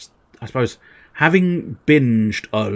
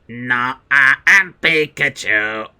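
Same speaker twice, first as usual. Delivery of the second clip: a hint of Pikachu; 3 semitones higher, 3 dB louder, slower than usual.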